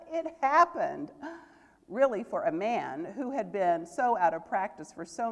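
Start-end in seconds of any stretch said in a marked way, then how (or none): 0.1-1.1 laughing with joy. A narrator's reading. Scrooge laughing at his second chance, loud and high. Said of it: "this was a splendid laugh".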